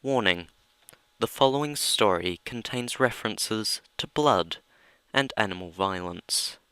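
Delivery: announcer introducing the reading; dramatic reading intro. Acted. Narrator introducing Spicy Man's ode, mock grave. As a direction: set up the story with mock gravity. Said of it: "a dramatic reading".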